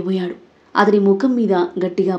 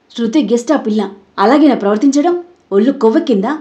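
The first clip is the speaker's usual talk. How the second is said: angry scolding; 3 semitones higher, 5 dB louder than usual. Acted. Father scolds his son.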